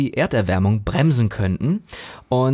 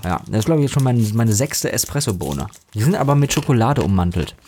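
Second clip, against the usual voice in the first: chewing while talking. Real, not acted. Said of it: "Ich esse übrigens, während wir hier sprechen, die ganze Zeit Espresso-Bohnen".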